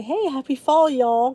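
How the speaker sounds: playful, lightly Southern greeting; joking Southern greeting. Pretend. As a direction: call it out with mock Southern cheer. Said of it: "I say it now just to be funny".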